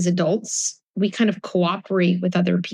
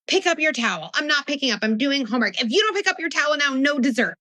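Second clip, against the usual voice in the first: higher, nagging parent voice in a mock argument; 6 semitones higher than usual. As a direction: act out a bickering mom and kid. Acted parent-kid quarrel.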